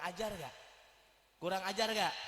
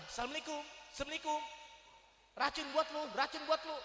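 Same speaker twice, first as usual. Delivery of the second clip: slurred mock greeting; 6 semitones higher, faster than usual. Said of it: "kalau ada orang begitu".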